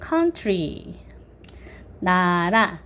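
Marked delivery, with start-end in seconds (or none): 0.0-0.9 "country" stressed on "coun". Shown as a demonstration. Teacher repeats after naming the stressed letters, OU stressed. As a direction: lean on the first vowel of "country". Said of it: "O-U에 강세를".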